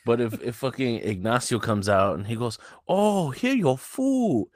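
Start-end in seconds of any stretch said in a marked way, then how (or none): 2.9-4.5 much higher, very slow mock Asian accent. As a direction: imitate a waiter faking an Asian accent. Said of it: "You can't ... do that".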